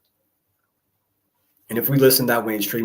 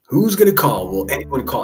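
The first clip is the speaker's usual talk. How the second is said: loud, high pleading call; 3 semitones higher, 8 dB louder than usual. Real, not acted. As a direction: shout out for a caller. Host urging viewers to call.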